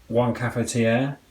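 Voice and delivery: mock French accent on "cafetiere", slowed down; bad put-on French accent on the word; terrible French accent. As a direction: say "cafetiere" the French way, slow and a bit hammed-up. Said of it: "Excuse my terrible French accent".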